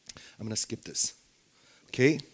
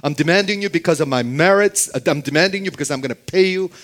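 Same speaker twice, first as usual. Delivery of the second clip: higher, louder pretend demand; put-on pushy demand, pitched up; mock demanding; 4 semitones higher, 5 dB louder, faster than usual. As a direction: insist as if entitled, as a counterexample. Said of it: "Nothing like that".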